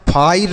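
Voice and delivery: "फायर" squeezed to 'phair', no vowel before r; wrong fire pronunciation. Shown as a demonstration. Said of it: "फायर नहीं पढ़ेंगे". ("फायर" को फाइर जैसा गलत बोलें)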